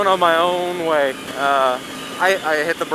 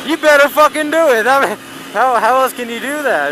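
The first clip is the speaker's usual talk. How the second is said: loud, intense, pitched way up; emphatic shout; 8 semitones higher, 5 dB louder than usual. Real, not acted. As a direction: drive the point home hard. Intense point about survival.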